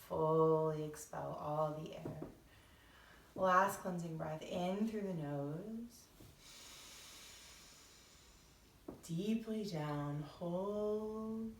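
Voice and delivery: soft, measured meditation voice; guided meditation. Acted. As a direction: ease listeners gently into breathing, unhurried.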